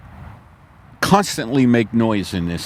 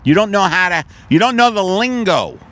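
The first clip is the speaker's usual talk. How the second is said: mock contempt; 6 semitones higher than usual. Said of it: "I spit at their feet and I go".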